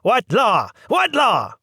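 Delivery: put-on high, loud old woman's squawk; angry yell. A narrator's reading. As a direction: yell it back at him, outraged. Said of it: "The old lady yelling".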